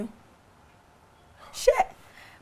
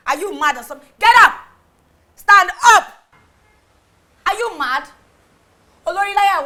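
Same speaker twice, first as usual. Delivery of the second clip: furious shouting; 6 dB louder than usual. Acted. Wife screaming at the girl she finds in the office, furious. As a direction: scream her off the chair in rage.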